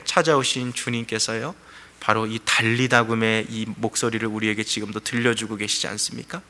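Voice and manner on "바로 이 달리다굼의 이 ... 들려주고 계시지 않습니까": ordinary delivery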